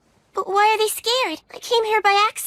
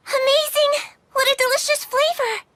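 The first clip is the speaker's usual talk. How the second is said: higher and louder, bursting with delight; 7 semitones higher, 3 dB louder than usual. Acted. Girl tasting potato mochi, bursting with delight. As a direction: gush over the taste of the mochi.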